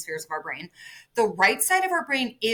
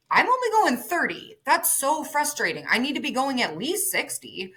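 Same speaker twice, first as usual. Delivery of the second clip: higher-pitched imitated exasperation; voicing someone fed up, pitched up; mock frustration; 6 semitones higher than usual. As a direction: complain like an impatient driver, playfully exaggerated. Voicing a frustrated slow driver.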